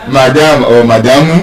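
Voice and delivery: madam as ma-DAM, madamu with an added -u; local pronunciation. Shown as a demonstration. Teacher echoing the class, madam and madamu stressed late. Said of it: "what do you say?".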